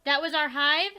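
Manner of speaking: put-on high, loud excited kid voice; twin character voice. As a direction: chirp it like an eager twin. Twins voiced reading game text.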